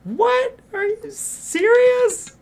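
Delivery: high, loud disbelieving yell; startled high yell; shocked shout. Acted. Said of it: "No need to shout".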